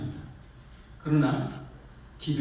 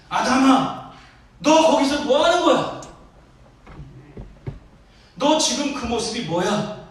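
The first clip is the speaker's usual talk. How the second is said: high, very loud scolding as God; shouted rebuke; 8 semitones higher, 8 dB louder than usual. Acted. Preacher as God confronting Adam over his state, shouted rebuke. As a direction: cry out indignantly, demanding an answer. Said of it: "하나님이 외쳤을지도 모르겠어요".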